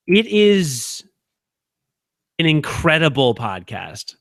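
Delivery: hushed, secretive whisper. Real, not acted. Host whispering his praise of a new podcast to listeners.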